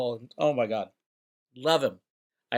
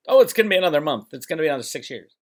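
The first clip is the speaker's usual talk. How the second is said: backtracking believers; faster than usual. Retold or imitated. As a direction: toss off their next excuse in mimicry. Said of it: "what are they gonna say next?".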